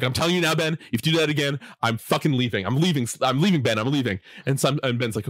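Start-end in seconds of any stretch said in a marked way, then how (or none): 0.0-4.2 mildly heated retold ultimatum; upset warning. Slime threatens Ben with leaving the table, mildly upset. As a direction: lay down a warning, a touch upset. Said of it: "gets really upset at him".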